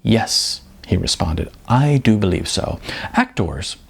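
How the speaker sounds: measured novel reading voice; story narration. A narrator's reading. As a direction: read it like an author sharing his book. Author reads his novel aloud.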